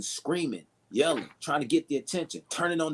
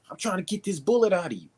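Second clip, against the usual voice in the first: raised-pitch mock yell; half-shouted retort, pitched up; screaming back; 4 semitones higher than usual. Helper yelling at a brother while pulling the bullet out, mock yell. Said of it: "you gotta scream back at 'em".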